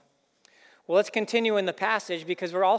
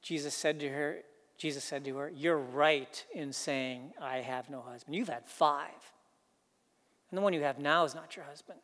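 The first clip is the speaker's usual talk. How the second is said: harsh Jesus tone; 4 semitones lower, 7 dB quieter than usual. Shown as a demonstration. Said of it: "in a tone more like this".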